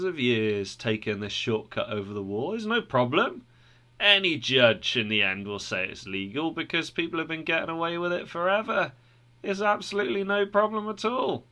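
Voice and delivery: lightly voiced sly trespassers; smug reassuring voice. Formalist and Hypocrisy voiced.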